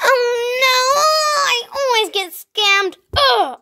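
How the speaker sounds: high whiny mock sob; hammed-up crybaby whine; fake crying. Loser whines after being scammed.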